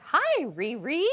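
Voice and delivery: slow, high sing-song greeting; mom's sing-song voice. Retold or imitated. Daughter imitating her mom greeting her, slow sing-song. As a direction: imitate a mom's lilting hello, drawn out. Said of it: "She speaks in sort of a sing-song voice".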